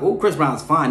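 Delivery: normal talking voice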